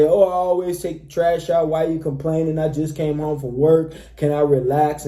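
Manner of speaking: emotional complaint. Acted. Man answering his girlfriend about the trash, mildly emotional complaint. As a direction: act out a man getting defensive and reactive. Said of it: "will get emotional and say".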